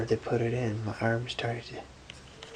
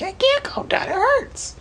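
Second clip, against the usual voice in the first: high, loud re-enacted cry of distress; retold pained protest; 8 dB louder, slower than usual. Patient to mom who says calm down, retold pained protest. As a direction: protest loudly through pain, voice shooting up. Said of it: "She kept telling me to calm down".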